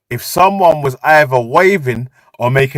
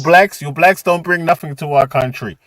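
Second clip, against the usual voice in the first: mock German accent. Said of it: "he used to say".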